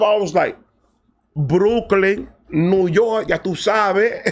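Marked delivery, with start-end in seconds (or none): 1.3-4.2 put-on Spanish-accented Brooklyn. Answering Dominican girls, showing off.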